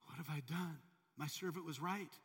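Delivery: shaken king realizing he was saved; startled realization. Retold or imitated. King alone in the jungle, crying out in relief. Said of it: "walking through the jungle going".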